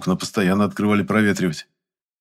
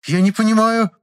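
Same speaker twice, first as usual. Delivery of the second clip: high, frightened jabber; frightened babble; 6 dB louder than usual. A narrator's reading. Customer babbling in fright at the pharmacy. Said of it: "залопотала перепуганная покупательница".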